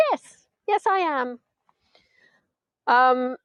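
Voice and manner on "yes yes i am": retold insistence. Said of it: "I said".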